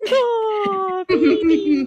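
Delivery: high-pitched coo over a cute pet; adoring high squeal. Real, not acted. Cooing over the adorable cat.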